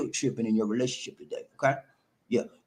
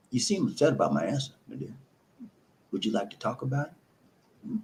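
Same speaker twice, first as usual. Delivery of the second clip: gentle, caring question; 5 dB quieter than usual. Shown as a demonstration. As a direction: ask softly, inviting her to open up. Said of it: "You've listened to her".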